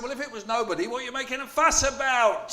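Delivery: high, loud dismissive retort; the Cyclopses mocking Polyphemus's complaint; scornful giants. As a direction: brush him off with scorn.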